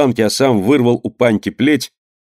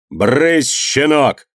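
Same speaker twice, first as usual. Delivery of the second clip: angry shout; 4 semitones higher, much slower than usual. Acted. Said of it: "крикнул Иван Максимыч".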